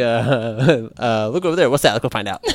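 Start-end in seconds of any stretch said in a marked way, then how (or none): 1.3-2.4 excited discovery voice. Pretend. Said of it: "mine's gonna be".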